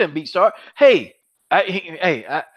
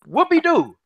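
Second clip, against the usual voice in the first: mocking "whoopee-doo", higher and drawn out; mock cheer, higher pitched; sarcastic whoopee-doo; 11 semitones higher, slower than usual. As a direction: sneer it like it's nothing special. Mocking a rival's small win.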